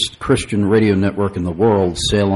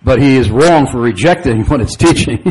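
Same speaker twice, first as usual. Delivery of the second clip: laughing through words; 4 semitones higher, 4 dB louder than usual. Real, not acted. Laughs while retelling his call.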